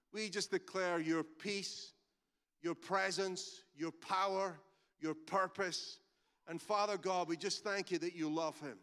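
intercessory prayer voice; earnest prayer. Acted. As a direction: pray over him gently. Leads a healing prayer.

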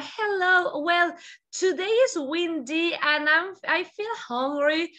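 slow, careful model English sentence; model recording. Shown as a demonstration. Teacher models a voice diary entry slowly. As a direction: show a student recording practice, slowly. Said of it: "grábate en tu celular".

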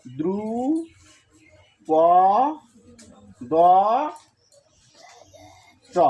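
দ্রু প দ চ with long pauses between syllables. Shown as a demonstration. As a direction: spell out দ্রু, প, দ, চ one at a time. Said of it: "দ্রুপদ চ কেন হলো?". (দ্রু প দ চ থেমে থেমে)

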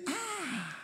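high, soft drawn-out "ah"; mock wailing exclamation. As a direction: imitate a complainer's exclamation. Mimics congregation complaining to God.

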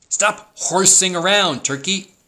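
high, slow, teasing cow voice; scolding cow. A narrator's reading. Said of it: "said Cow".

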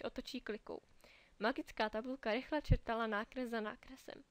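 ordinary delivery

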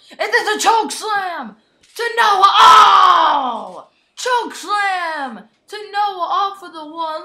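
high and loud play-by-play; announcer losing it; rising excited shout. Real, not acted. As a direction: call the choke slam at full voice. Choke slam off ladder.

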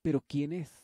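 loud startled shout; a boy shouting in surprise at the stranger. Acted. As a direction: blurt it out at full volume. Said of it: "si hablas tan fuerte".

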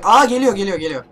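sudden loud high yelp; real startled cry; startled shout. Real, not acted. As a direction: caught off guard by the monster. Monster approaching suddenly.

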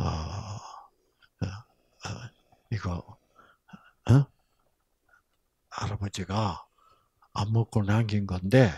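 put-on low, whispered aside to a child; hushed secret whisper. Pastor slipping a child a can, hushed and secretive. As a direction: slip her a secret gift quietly.

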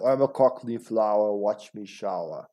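put-on Cockney rhyme; Cockney accent. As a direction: recite it like a comic Cockney villain. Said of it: "Cockney, I have to practice that".

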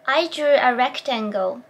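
very slow, lips rounded before the R; slow pronunciation model; slow careful demo. Shown as a demonstration. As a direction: draw it out slowly for the learner. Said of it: "ではもうちょっとやってみます".

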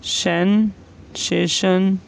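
सेंसेशन drawn out very slowly; slow dictation. Shown as a demonstration. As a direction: spell it out slowly for the class. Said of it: "इसका नाम है सेंसेशन".

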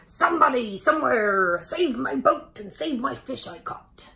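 mock shouting for someone to come; yelling for help. Captain yelling from his sinking boat, loud. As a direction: call out loud for help, hammed up. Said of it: "yelled and hollered".

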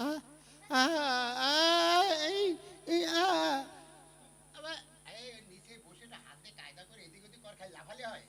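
mime-like grunts of a man without speech; grunt, no words; mute grunting. Acted. (বোবা মানুষের আ-আ আওয়াজ)

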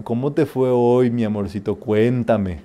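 gently doting mother asking about her day; mother gently sweet-talking her pouting daughter. Retold or imitated. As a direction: soften it, a mother's sweet coaxing. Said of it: "No me hables bonito".

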